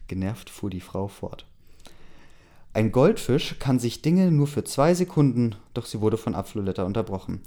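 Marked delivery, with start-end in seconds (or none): 2.7-5.5 eager. A narrator's reading. Stranger lectures, gets interrupted.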